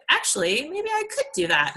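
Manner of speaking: lightly voiced surprised hope; hopeful realization. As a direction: let the idea dawn on you. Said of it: "I was just like".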